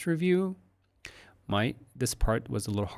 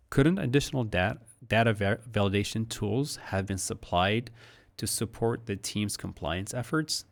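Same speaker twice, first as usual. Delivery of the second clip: stumbling, restarting take of the question; fumbled take. Shown as a demonstration. Teacher stumbles through a flawed take of the question. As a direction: trip over the words and restart. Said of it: "That didn't come out so well".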